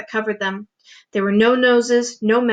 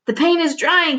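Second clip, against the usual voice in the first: moaning; 6 semitones higher than usual. Acted. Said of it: "he moaned".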